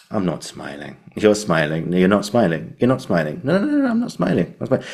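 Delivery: mock repetition variations, climbing up; playing with the line. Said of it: "all these different ways of doing it".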